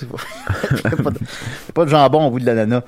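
Bebop the rat voice. Retold or imitated. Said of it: "Bebop le rat".

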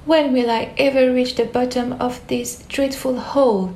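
Alice yelling down the dark hole; shouted while falling. Acted. Alice falling down the hole, calling out. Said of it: "she shouted".

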